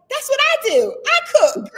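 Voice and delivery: high, loud half-laughing indignation; retold angry protest. Wife retelling her angry protest over cooking, laughing indignation. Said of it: "I was really pissed off".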